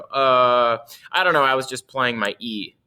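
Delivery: clueless student. Acted. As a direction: imitate a student caught without an answer. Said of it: "then the students go".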